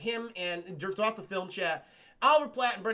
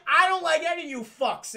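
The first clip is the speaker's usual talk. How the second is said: laughing outburst; 8 semitones higher, 7 dB louder than usual. Retold or imitated. Retold line laughing.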